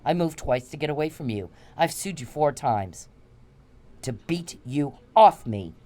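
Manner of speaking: loud, furious rant at him; angry tirade. Real, not acted. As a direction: tear into him with contempt.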